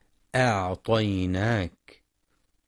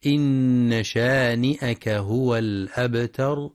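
slow recitation with a nasal hum on إن; Quran recitation; slower than usual. Shown as a demonstration. Teacher reciting the verse, slow tajweed chant. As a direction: chant the verse slowly, humming the nun.

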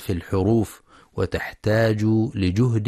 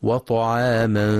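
slow, measured tajweed recitation; Quran recitation; slower than usual. Shown as a demonstration. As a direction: recite the verse slowly and carefully.

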